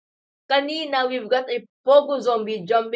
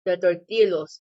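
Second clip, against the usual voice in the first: mouth full; 5 semitones lower, 3 dB quieter than usual. Real, not acted. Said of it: "I'm eating the cheese-flavored corn snack right now".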